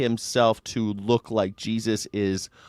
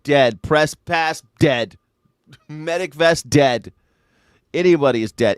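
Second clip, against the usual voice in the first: mock verdict; 2 semitones higher, 4 dB louder than usual. Mocking ruthless shooting rule.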